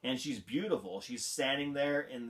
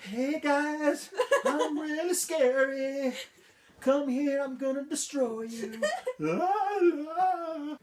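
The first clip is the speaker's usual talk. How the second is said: much higher and louder squeaky fake menace; mock scary villain; 14 semitones higher, 7 dB louder, slower than usual. Vlogger parodying the villain's threat in a high squeaky voice. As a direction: ham up a harmless villain threat. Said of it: "That's not even threatening".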